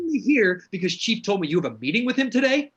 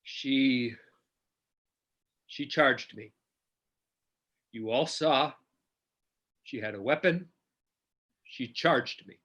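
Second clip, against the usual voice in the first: much lower and softer, halting; stunned murmur; 8 semitones lower, 7 dB quieter than usual. Acted. Officer in shock after shooting Lila, stunned murmur. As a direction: mumble it to yourself in shock.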